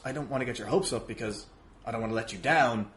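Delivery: usual speaking voice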